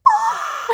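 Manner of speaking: sudden high-pitched shriek of a crowd; crowd scream. Retold or imitated. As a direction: let out a thrilled, piercing crowd scream. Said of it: "It was, like, so loud".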